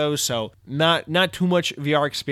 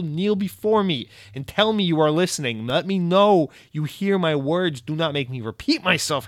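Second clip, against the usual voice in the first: booming arrogant alien overlord; 4 semitones higher, 4 dB louder than usual. Pretend. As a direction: proclaim like a tyrant demanding worship. Commands listener to kneel.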